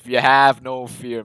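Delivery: loud, slow mock battle answer; imitated war cry. Film fan quoting Amazons' reply to their queen, loud imitated war cry. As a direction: stretch it out like troops answering their leader. Voicing the warriors' defiant reply.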